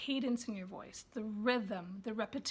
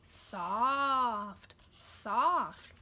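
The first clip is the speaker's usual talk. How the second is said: soft and soothing; 3 dB louder, much slower than usual. Shown as a demonstration. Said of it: "You can take their hand to it".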